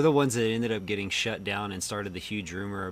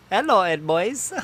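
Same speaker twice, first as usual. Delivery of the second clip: high, loud cartoon greeting; 11 semitones higher, 8 dB louder than usual. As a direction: greet them like a cartoon kid. Ed Edd n Eddy quote.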